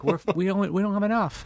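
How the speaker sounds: high squeaky goat voice. Pretend. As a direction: talk like a tiny goat. Voicing the goats.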